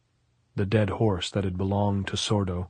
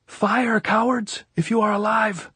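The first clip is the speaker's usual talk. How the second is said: loud, much higher taunt; defiant shout; 13 semitones higher, 4 dB louder than usual. A narrator's reading. Captain daring the dead on the hill, loud shout. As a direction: dare them to shoot. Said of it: "he shouted".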